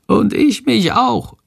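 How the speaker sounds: hoch und langsam, kleines Wesen; leise Fledermausstimme. A narrator's reading. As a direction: ein winziges Tier, das sich leise meldet. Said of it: "flüstert leise Shandor". (Shandor stimmt zu, hohe leise Wesenstimme)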